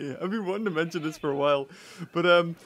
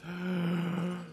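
mock-offended gasp; 8 dB quieter than usual.

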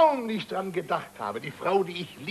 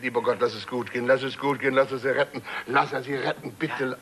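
muttered prayer; 4 semitones lower than usual. Retold or imitated. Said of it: "Hab nur gebetet".

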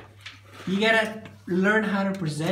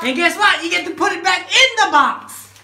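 playful tease; 11 semitones higher, 9 dB louder than usual. Real, not acted. Parent teasing child about sorting.

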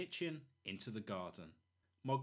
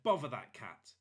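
louder, irritated curse; loud grumble; 7 dB louder than usual. Acted. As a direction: spit it out, caught out. Burglar caught by cat.

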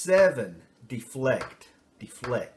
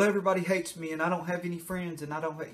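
put-on raised, fading whiny kid; child claiming no friends, whiny; self-pitying whine; 5 semitones higher, faster than usual. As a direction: wallow like a sulky child. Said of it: "you become the victim".

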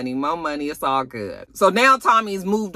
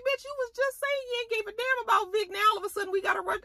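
mock sarcastic retort; 7 dB quieter, faster than usual. Mocking Stacy's flip-flop.

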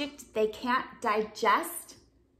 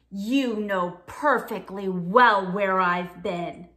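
grumpy Bob; 5 semitones lower, 4 dB louder than usual. Acted. Bob answers sourly.

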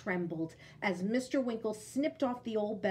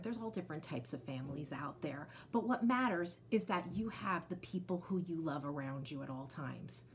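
whisper; 4 semitones lower, 6 dB quieter than usual. Real, not acted.

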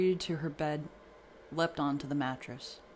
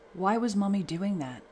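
put-on child voice; 6 semitones higher, 6 dB louder than usual. A narrator's reading. Frightened child asks her father.

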